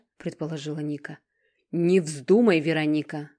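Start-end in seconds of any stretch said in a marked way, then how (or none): 1.7-3.3 loud, sharp refusal; protesting. A narrator's reading. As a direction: forbid it outright. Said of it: "запротестовал Ленард". (громко, решительный протест)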